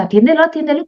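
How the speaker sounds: a jittery alarm, "Atiéndelo, atiéndelo" jumping up high; nervous urgent nagging. Retold or imitated. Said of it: "te va a poner muy nervioso".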